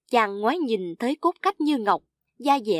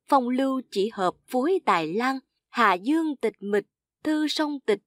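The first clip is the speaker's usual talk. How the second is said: lightly lifted verse reading; measured classical poem reading; poem recitation; 3 semitones higher than usual. A narrator's reading. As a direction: recite the verse line by line, slightly raised.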